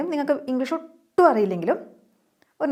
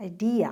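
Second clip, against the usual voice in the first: ഐഡിയ again with the middle syllable stressed, eye-DEE-a; English stress on idea; much slower than usual. Shown as a demonstration. Teacher repeating the correct stress of ഐഡിയ. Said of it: "അങ്ങനെയാ പറയുക".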